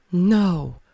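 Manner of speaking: a high, loud startled no from the wife; Anna's sharp no. Acted. Wife reacting to the marriage certificate, high and loud. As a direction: she cries out in disbelief. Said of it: "she says".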